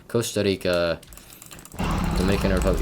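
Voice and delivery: country names in a learned Spanish accent. Real, not acted. Student recalling countries from Spanish class, Spanish accent. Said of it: "I'm pronouncing in a Spanish accent".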